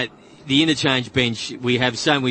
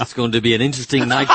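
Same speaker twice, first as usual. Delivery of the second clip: brisk, badly faked Russian accent; faster than usual. Panellist performing for laughing co-hosts, half-hearted Russian accent. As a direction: rattle it off in a weak Russian accent. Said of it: "Give me your best Russian accent".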